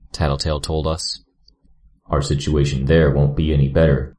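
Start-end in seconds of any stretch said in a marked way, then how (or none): 2.1-4.2 Grue voice. A narrator's reading. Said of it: "Gru countered".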